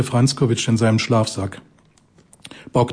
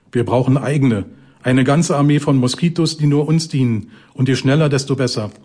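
gruff outburst. Acted. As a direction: vent his pent-up anger at her. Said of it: "Unwirsch drehte McFerry sich".

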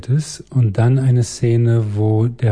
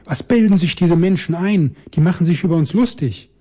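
high, indignant little ghost, words rushing; a furious child ghost lashing out; high-pitched outraged spirit; loud shrill ghost voice; 7 semitones higher than usual. A narrator's reading. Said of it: "laut und schrill".

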